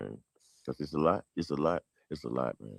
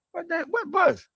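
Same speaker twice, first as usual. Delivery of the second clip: much higher, feigned puzzled voice; pretending not to understand grandma; mock confusion; 4 dB louder than usual. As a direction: act like you don't get it. His younger self playing dumb.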